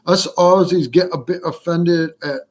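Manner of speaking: put-on failed first go at an Australian accent; botched Australian accent. Reading Susan's comment as an Aussie, botched Australian accent. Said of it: "I said that wrong".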